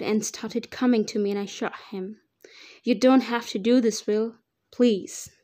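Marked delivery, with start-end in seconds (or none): 2.8-5.3 begging. Acted. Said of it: "I begged him".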